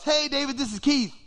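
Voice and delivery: high-pitched hello from a caller; hearty phone greeting. Acted. Famous singer phones the preacher, high hearty greeting.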